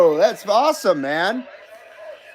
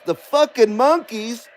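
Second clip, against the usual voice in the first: slow, slurred mumbling rock-star voice; 3 semitones higher than usual. Retold or imitated. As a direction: drawl it slowly like a burnt-out rocker. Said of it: "when a singer is in the movie and he says".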